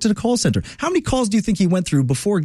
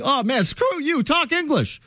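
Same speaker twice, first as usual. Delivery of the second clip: mock rude retort; 11 semitones higher than usual. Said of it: "And I'm like".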